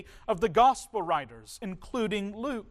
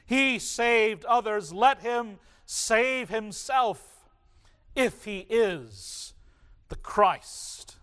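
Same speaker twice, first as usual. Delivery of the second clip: sarcastic mockery; 3 semitones higher, slower than usual. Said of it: "You can hear the sarcasm in their voice".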